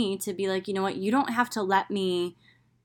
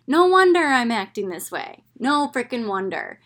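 exclaiming to herself at last; emphatic realization; 3 semitones higher, 5 dB louder than usual. Real, not acted. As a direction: hit it like an aha moment. Sudden self-understanding.

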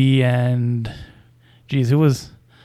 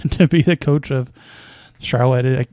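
laughing. Real, not acted. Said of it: "I can't even say it without laughing".

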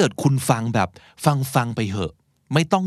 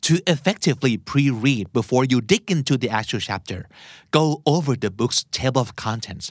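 very slow, word by word; slow teaching read; much slower than usual. Shown as a demonstration. Teacher reading the clip aloud for listeners, very slow and deliberate. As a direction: spell out each word slowly for learners. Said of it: "มาลองไปกันทีละประโยค".

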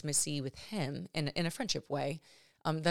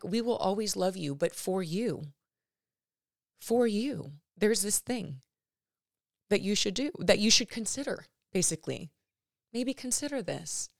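gentle; 4 semitones higher than usual. Retold or imitated. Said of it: "like, gentle".

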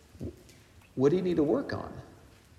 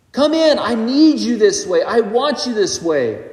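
preacher voicing God calling believers in, higher, emphatic; God's welcome; 4 semitones higher than usual. God welcoming believers into eternity, high emphatic call. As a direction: lift the voice high in an eager divine summons. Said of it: "God's like".

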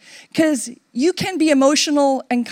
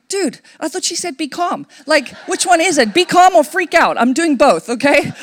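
overwhelmed exclaim; 7 semitones higher, 5 dB louder than usual. Retold or imitated. Retelling her panicked inner reaction.

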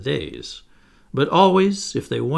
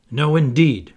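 twins' refusal; 3 semitones higher, 8 dB louder than usual. A narrator's reading. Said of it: "replied the twins".

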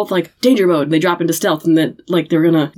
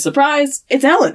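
higher, sing-song surprise; mock ta-da reveal; 9 semitones higher than usual. Host mocking Ellen's surprise entrance, playful. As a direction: present it like a magic trick.

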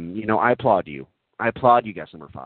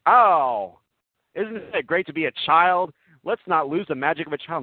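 high-pitched, lilting mock wonder; retold childlike wonder; 6 semitones higher than usual. Telling the group about gushing in Old Navy, retold childlike wonder. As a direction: marvel aloud, pitched up. Retelling own wonder at store.

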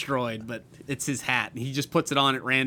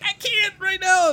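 higher voice, a touch of a busy wife; imitating wife; 5 dB louder than usual. Quoting his wife with shortening on her hands, mock-busy. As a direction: toss it off like someone with busy hands. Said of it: "she's like".

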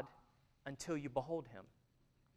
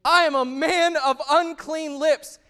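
Isaiah's confession; 12 semitones higher, 16 dB louder, slower than usual. Acted. Isaiah confessing before God.

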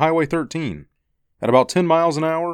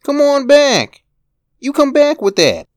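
put-on child shouting; 13 semitones higher, 8 dB louder than usual. Boy yells after his brother for his toy, high loud. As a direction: shout yourself hoarse after the thief. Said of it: "shouting and gasping as he ran".

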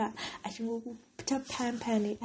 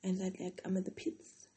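quiet; 10 dB quieter than usual. Real, not acted. Low confession.

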